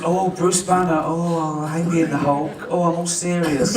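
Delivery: lightly hammed-up serious actor; mock brooding thespian. Director mimicking his brooding actor, mock-serious. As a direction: gently send up a self-important thespian. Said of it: "he was this brooding thespian".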